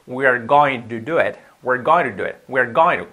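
"going to" with its T tapped like a soft R; flapped, linked T in "going to". Shown as a demonstration. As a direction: run "going to" into "goin-ru". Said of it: "hacemos la T con una R suave".

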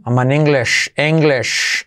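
"English" with an e start and a "sh" end; modelled pronunciation. Shown as a demonstration. Teacher shows learners how to say it, "English" drawn to "sh". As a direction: say "English" as "Eng-lesh". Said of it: "Mira cómo le digo".

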